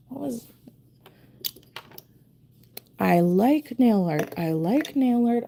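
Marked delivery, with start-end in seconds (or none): 3.0-4.3 self-persuasion. Real, not acted. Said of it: "reminding myself that I like". 4.4-5.4 self-persuasion. Real, not acted. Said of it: "reminding myself that I like".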